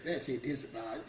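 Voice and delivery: low, defeated naysayer talk; negative attitude. Acted. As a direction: lightly act out a can't-do attitude. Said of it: "'Cause your attitude gonna say".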